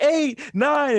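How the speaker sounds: mock referee count, high; ref counting.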